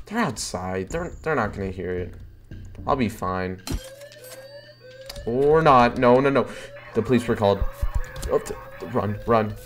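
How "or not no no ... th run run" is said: panicked, breathless rush of words; being chased. Real, not acted. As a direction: scramble to hide in a panic. Police called, fleeing to dumpster.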